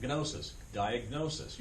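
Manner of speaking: "Gnosis" and "diagnosis" with G sounded into N; G and N together. Shown as a demonstration. Teacher demonstrating G and N said together, both sounded in "Gnosis", "diagnosis". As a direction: let the hard G be heard before N in "Gnosis", "diagnosis". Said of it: "hear the G and the N said together".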